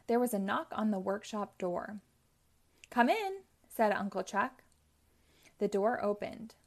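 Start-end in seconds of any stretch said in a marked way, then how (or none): 2.9-3.4 calling out. Acted. Uncle Chuck answers knock.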